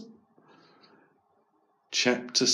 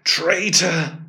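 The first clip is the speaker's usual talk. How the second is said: angry; 6 semitones higher than usual. Acted. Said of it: "twitched her ears angrily".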